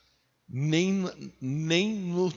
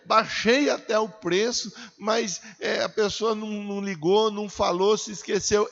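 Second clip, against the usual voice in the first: acted fretful believer, higher and quick; worried complaining; 5 semitones higher than usual. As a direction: grumble in a rapid, raised sing-song. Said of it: "você não precisa ficar preocupado".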